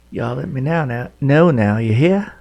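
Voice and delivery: bad southern accent. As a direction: put on a hammy Southern accent for the viewers. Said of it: "Sorry for my bad southern accent".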